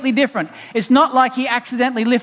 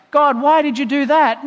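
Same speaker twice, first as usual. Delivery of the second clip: acted reproachful question, pitched up; accusing people; 5 semitones higher than usual. His people blaming God for tragedies, reproachful. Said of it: "for his people to say".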